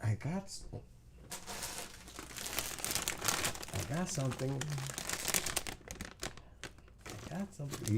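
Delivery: high teasing lure; coaxing pet talk. Real, not acted. Owner baiting the dog with food, high coaxing.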